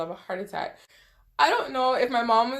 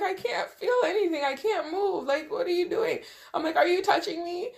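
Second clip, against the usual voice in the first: crying plea; 8 semitones higher than usual. Retold or imitated. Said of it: "I started to cry".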